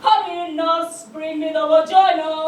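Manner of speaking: loud mock operating-room order; hammed-up medical emergency command; urgent surgeon. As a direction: call out urgently to the nurse. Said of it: "or a medical instrument".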